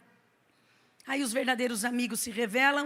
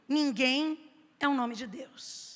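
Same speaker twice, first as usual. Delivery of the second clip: solemn answer; slower than usual. Acted. Answer, slow and low.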